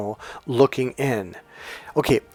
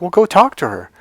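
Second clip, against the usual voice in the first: urging; 6 semitones higher, 6 dB louder than usual. Retold or imitated. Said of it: "I'm like".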